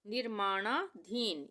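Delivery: निर्माणाधीन slow, split as निर्माणा, धीन; word read in two parts. Shown as a demonstration. Teacher breaking up a long word, निर्माणाधीन in slow halves. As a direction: pause before धीन in निर्माणाधीन. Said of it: "हम पढ़ सकते हैं निर्माणा".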